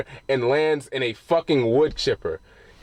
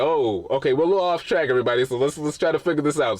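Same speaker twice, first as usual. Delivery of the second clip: freaking out; 2 semitones higher, faster than usual. Retold or imitated. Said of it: "kind of freaking out".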